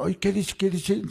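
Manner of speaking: mock disbelief at the child's words; surprised teachers.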